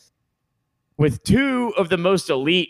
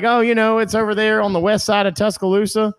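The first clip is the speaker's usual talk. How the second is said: visitor explaining; 7 semitones higher than usual. Retold or imitated. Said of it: "And they're like".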